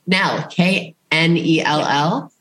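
slow letter by letter; measured spelling with a final lift. Real, not acted. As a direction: spell it out slowly, rising on the end. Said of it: "I'm just gonna spell death for you".

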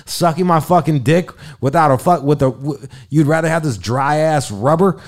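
are-you-kidding-me outrage, pitched high; incredulous rant. Retold or imitated. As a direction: tear into her, unable to believe it.

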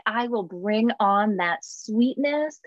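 slow, mock-sweet delivery; sugar sweet. Friend promising sweetness when angry, mock sugary. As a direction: imitate someone slowly pouring on sweetness. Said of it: "sweet as sugar nice".

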